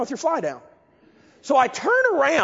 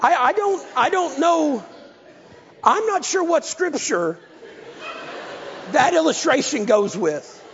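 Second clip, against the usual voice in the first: laughing; 5 semitones higher than usual. Real, not acted. Laughing at own story.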